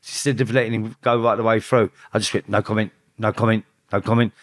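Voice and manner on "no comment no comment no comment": clipped repeated no comment over and over; rapid-fire no comment. Shown as a demonstration. Interrupting the cop's questions, repeated no comment. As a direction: cut him off each time. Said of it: "like that".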